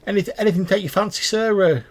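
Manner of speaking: high, loud, wheedling sales pitch; oil up the customer; pushy little merchant voice; fawning goblin salesman. Acted. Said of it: "He's like".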